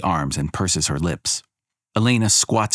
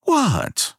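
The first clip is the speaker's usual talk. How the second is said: high, tense gritted-teeth What; through gritted teeth. Acted. Elena challenges the crowd through gritted teeth. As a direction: bite it out. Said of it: "she grits her teeth and says".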